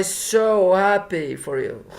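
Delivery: slow, the end of "you" lifting into a question; rising like a question. Acted. Max dodging an apology to Jessie, ending on a rising question tune. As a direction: let "So happy for you" turn up at the end, unsure. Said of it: "Max's voice goes up at the end like a question".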